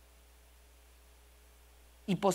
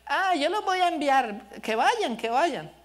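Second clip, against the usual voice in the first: eager parent; 6 semitones higher, slower than usual. Retold or imitated. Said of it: "me dijeron".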